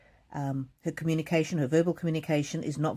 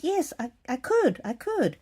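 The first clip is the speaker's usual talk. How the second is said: much higher and slow, proudly halting; proud old lady; 8 semitones higher, slower than usual. Retold or imitated. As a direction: stumble proudly through the answer like a stroke survivor. Mother-in-law proud she could speak.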